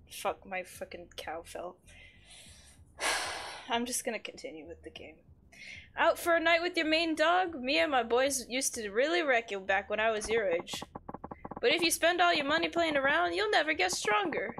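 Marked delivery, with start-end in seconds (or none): 5.9-14.5 put-on higher, lilting old-timey villain; amateur voice acting of an old-timey villager. Streamer voicing a game villager's advice, old-timey villain. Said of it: "does kinda sound like an old-timey villain".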